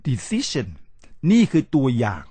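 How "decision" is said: "decision" slow, with stressed "ci"; correct English stress. Shown as a demonstration. Teacher giving the form natives use, English stress. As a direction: stretch the middle of "decision". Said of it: "เขาใช้ decision".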